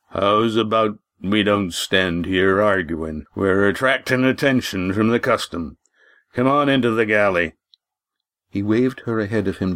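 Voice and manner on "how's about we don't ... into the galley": lightly voiced innkeeper. Walt calming Lindy.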